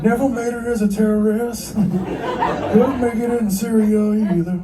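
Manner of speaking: laughing through the punchline. Real, not acted. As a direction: giggle it out. Mock terrorist jab, laughing.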